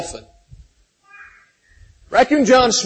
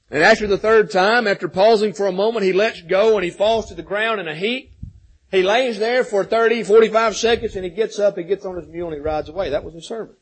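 normal talking voice

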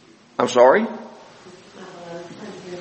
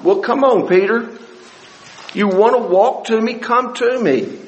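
easygoing, coaxing everyday talk, pitched higher; casual modern paraphrase; 4 semitones higher than usual. Shown as a demonstration. Teacher voicing Jesus in today's vernacular, casual coaxing. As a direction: coax Peter along like a friend today. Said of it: "vernacular today would be what".

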